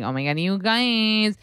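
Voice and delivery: put-on bright high Valley Girl gush, pitch up. Shown as a demonstration. Showing off the Valley Girl voice to a friend, high and gushing. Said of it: "the Valley Girl vibe".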